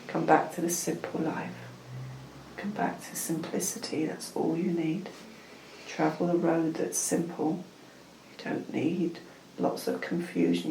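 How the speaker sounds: measured spiritual message in short, repeated phrases; unhurried ritual guidance with pauses; channelled guidance. Acted. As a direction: counsel them like a meditation guide.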